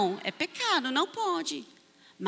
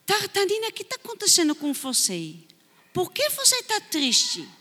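teacher tenderly asking a sad pupil; caring teacher; 6 semitones higher than usual. Acted. Teacher asks sad child why.

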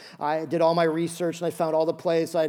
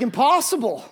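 loud, slow, high mock outrage; 3 semitones higher, 6 dB louder, slower than usual. Pastor mocking his own indignant reply to the clerk, loud and slow. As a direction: overpronounce each word as if to a foreigner.

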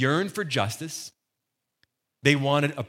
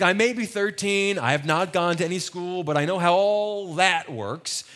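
higher-pitched, self-assured retelling of Mary; knowing protest; 5 semitones higher, 3 dB louder than usual. Retold or imitated. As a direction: imitate a teen insisting she knows. Voices teenage Mary talking back.

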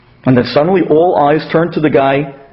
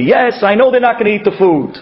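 Abraham voiced; 6 semitones higher than usual. Abraham's imagined speech, voiced.

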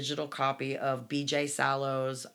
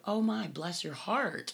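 sweet Southern bless your heart; 5 semitones higher than usual. Shown as a demonstration. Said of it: "you can actually go".

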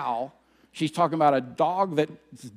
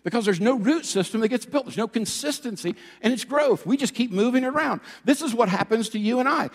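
higher, energetic sermon delivery; emphatic preaching; 5 semitones higher than usual. Acted. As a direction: preach it with force and urgency. Preacher drives the point home.

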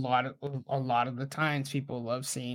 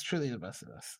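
softer, dropped back down; quiet repeat; 2 semitones lower, 6 dB quieter than usual. Pretend. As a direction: say it again under your breath.

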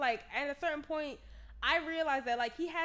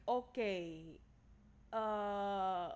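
imitated Spanish-speaking driver, rising to a loud curse; hesitate, then swear in a Spanish accent; mock Spanish-accented confusion; 3 semitones lower, 6 dB louder, slower than usual. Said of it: "This is all in a Spanish accent".

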